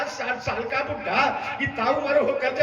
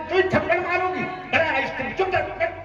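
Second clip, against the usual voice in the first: mother threatening; 5 semitones higher, faster than usual. Retold or imitated. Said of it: "mummy ने कहा".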